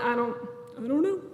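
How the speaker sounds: acted helpless answer, rising at the end; mock-clueless, pitch lifting on the last words; stumped student. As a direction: answer as if caught out by an instructor. Acting out being stumped by question.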